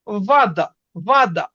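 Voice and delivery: ওয়াদা with দা hit harder; stress on দা. Shown as a demonstration. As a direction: punch the দা in ওয়াদা. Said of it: "জোর পড়তেছে কোথায়?".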